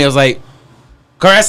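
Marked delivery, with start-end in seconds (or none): 1.2-1.5 loud, high cry for help; retold distressed holler; calling out. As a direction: yell a name helplessly. Calling partner while covered in vomit.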